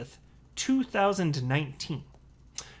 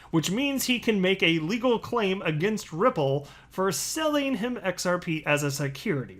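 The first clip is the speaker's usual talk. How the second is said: dry sarcasm, a bit raised; sarcastic read; 3 semitones higher than usual. Shown as a demonstration. Reading his own sarcastic tweet to viewers, deadpan mock-serious. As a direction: read it as an obvious joke. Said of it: "this last part of my tweet is sarcasm".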